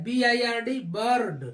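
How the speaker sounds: "बर्ड" with the ur sound after spelling B I R D; teacher spelling out "बर्ड"; spelled pronunciation. Shown as a demonstration. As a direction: spell it, then land on "बर्ड". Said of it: "उच्चारण अर ही होता है".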